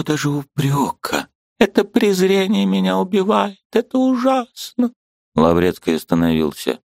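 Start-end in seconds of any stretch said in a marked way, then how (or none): 1.6-4.9 очень высокий надрывный женский голос; кричи о своей боли; отчаянный вопль. A narrator's reading. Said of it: "с отчаянием проговорила". (очень высоко, надрывно)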